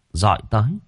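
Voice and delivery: plain reading voice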